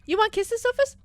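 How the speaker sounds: put-on high cooing baby talk. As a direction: coo at the pet like a baby.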